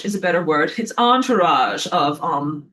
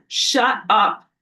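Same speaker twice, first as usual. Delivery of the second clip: scolding the sun; 4 semitones higher, 4 dB louder than usual. Pretend.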